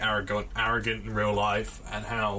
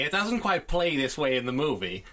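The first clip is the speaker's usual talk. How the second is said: Tarantino impression; 3 semitones higher than usual. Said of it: "try and do my best Tarantino impression".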